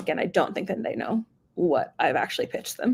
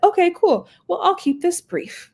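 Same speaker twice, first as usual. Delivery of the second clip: brisk salesperson; 10 semitones higher, slower than usual. Retold or imitated. Acting out a salesperson's reply.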